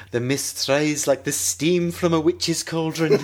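slow attempt at a Scottish accent; a weak stab at Scottish; bad Scottish accent. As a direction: try a Scottish accent and know it's bad. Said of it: "Let's see if I can do the accent".

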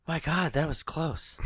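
softly spoken, barely bothered relief; underplayed mock relief. Host mocking the final girl's near miss, understated relief. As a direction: imitate a bad actor's weak reaction. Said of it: "right, just goes".

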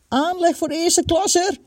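high-pitched thrilled outburst; excited, pitched well up; elated exclamation. A narrator's reading. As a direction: marvel aloud at glowing praise. Boy marvels at the praise.

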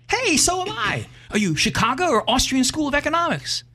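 woman's voice far up, eager; high eager woman. Acted. Woman on bridge quizzes the man, high and eager. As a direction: quiz him eagerly in a high voice.

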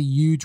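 "huge" said as "yooj", no H; Long Island "huge" starting on a Y sound. Real, not acted. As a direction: drop the H from "huge". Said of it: "I can't pronounce the H".

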